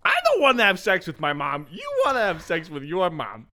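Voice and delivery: high, hammed-up declaration; put-on character voice. Host mimics Freud's theory for a joke, high put-on voice. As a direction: pitch it up and stretch it out.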